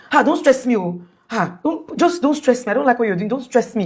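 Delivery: acting out a fed-up husband; irritated husband. Retelling husband snapping at burnt wife.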